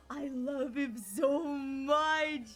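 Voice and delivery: slow, high, loud near-sobbing adoration; drawn-out happy tears; overjoyed gushing. Real, not acted. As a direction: melt over him like you could cry. Gushing over beloved character.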